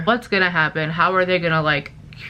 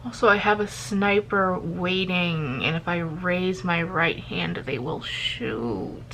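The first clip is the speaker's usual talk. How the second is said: same casual tone; 6 dB quieter than usual. Retold or imitated. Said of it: "in that same kind of tone".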